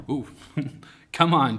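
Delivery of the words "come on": eager invitation. Retold or imitated. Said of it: "Jesus says".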